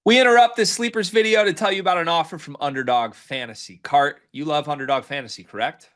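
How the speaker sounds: quick upbeat sponsor read. Acted. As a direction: sell it like a podcast ad.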